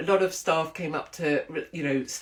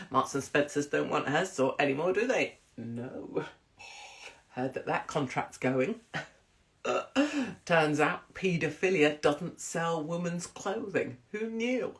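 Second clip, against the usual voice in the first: Holly impression. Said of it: "give us a Holly impression".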